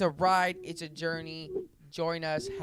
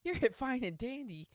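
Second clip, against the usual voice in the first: mock ad read; 7 semitones higher, 3 dB quieter than usual. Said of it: "one big ad".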